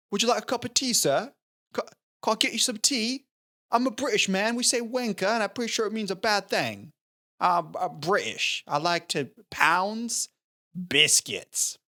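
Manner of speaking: high-pitched, badly faked British accent; exaggerated, clumsy British accent. Shown as a demonstration. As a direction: put on a hammy British man's voice. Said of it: "That's my British accent".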